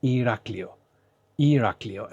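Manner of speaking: Iraklio with stress on the A; model pronunciation. Shown as a demonstration. Teacher modelling a Greek place name, stressed on the A in "Iraklio". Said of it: "the stress is on Iraklio".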